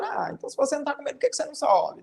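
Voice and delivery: quick, tossed-off mocking question; fast teasing aside; ironic taunt. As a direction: needle the other one lightly. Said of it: "Ele tá ali ironizando com o outro".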